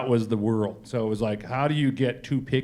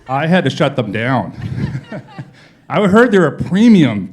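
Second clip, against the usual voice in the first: laughing; 5 semitones higher, 12 dB louder than usual. Real, not acted. Teased about tattoo shop deal.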